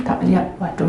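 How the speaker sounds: ordinary talk, nothing marked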